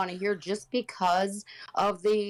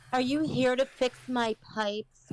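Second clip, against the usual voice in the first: sultry voice; 4 semitones higher than usual. Acted. Mock porn line.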